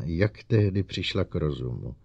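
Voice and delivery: ordinary delivery, nothing marked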